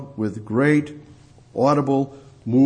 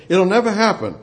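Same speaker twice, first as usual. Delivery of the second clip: raised, high-pitched preaching voice; impassioned declaration; 7 semitones higher, 4 dB louder, faster than usual. Real, not acted. Preacher telling the congregation it can never be, impassioned.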